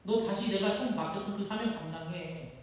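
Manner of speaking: insistent reassurance. Acted. Jesus insists on forgiveness.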